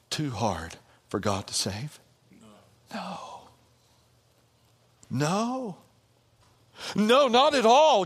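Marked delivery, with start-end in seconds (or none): 2.9-8.0 rising from a flat no to a loud ringing no; no, no, NO, building to a declaration; building emphatic no. Acted. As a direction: answer louder with each no. Preacher answers his own question, building.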